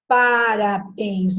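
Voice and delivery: parabéns split slowly into syllables; syllable demo. Shown as a demonstration. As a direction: count out parabéns, leaning on béns. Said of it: "não, é bens". (parabéns devagar, sílaba por sílaba)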